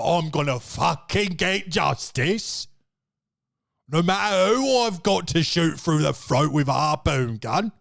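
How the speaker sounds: put-on Cockney accent. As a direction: growl it as a hard Cockney vigilante. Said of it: "walking around ... like this".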